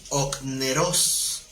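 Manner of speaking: slow "okneros", stressed on the last O; "okneros" drawn out with final-syllable stress; Greek word pronunciation. Shown as a demonstration. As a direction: pronounce "okneros" carefully, accent on the second O. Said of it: "con acento en la segunda O".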